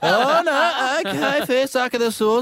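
high, loud, drawn-out broad Aussie; hammed-up Aussie accent. Traveller greeting people overseas, exaggerated Aussie accent. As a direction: crank the Aussie twang right up, pitched high. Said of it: "I Aussie it up heaps".

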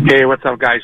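speakerphone. Real, not acted. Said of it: "I just wanted to take you off speaker".

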